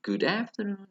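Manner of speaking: "Good afternoon" high, then falling; intonation drill. Shown as a demonstration. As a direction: push "afternoon" up and let it drop. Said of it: "tidak, tidak sama ya intonasinya".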